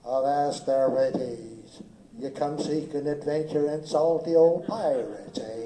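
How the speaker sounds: loud gruff pirate barker; gruff old fisherman. Acted. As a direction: hail the guests like an old sea dog. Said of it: "the first thing I did was".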